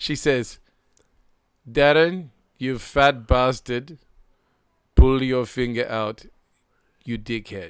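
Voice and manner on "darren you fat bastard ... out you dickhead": loud, slow, drawn-out attempted put-on Indian accent. Retelling what a friend says to him, attempted Indian accent. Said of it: "I'll try and do the accent".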